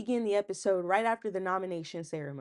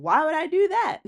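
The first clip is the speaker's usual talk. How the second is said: mock scorn; 8 semitones higher, 9 dB louder than usual. Voicing Vince's scornful diary room.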